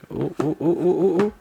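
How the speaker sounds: delighted rising oohs; excited cooing. Real, not acted. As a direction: coo over the new phone with mounting delight. Excited reveal of new phone.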